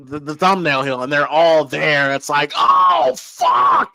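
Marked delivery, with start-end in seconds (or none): 2.5-3.9 breathless unvoiced oh fuck; shocked whisper. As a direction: gasp it out in shock. Character's shocked reaction, unvoiced.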